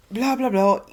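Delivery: put-on tossing off Korg's lines in a quick Australian accent. Recapping Korg's lines for viewers, in a mock Australian accent. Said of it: "Australian accent".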